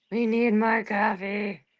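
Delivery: slow, drawn-out coffee plea; slow emphatic. Shown as a demonstration. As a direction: drag it out sleepily.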